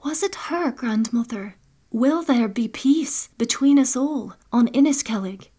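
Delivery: a granddaughter begging forgiveness, hushed; young Brana, pleading. Acted. Brana asks hopefully.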